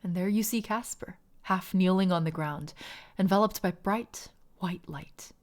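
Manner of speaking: story narration. A narrator's reading. GM narrates the soul crossing.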